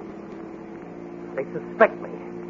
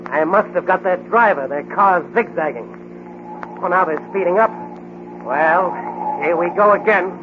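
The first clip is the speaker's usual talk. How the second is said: tense chase; 5 semitones higher than usual. Acted. Hero narrating the chase to himself, tense and excited. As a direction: keep the pulse of the chase up.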